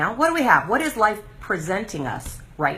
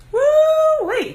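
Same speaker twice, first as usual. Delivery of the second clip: much higher, louder whoop; woo-wee whoop; 6 dB louder than usual. Real, not acted. Viewers reacting to her show, a loud amazed whoop. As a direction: let out a big amazed whoop. Recalling backlash to Regain show.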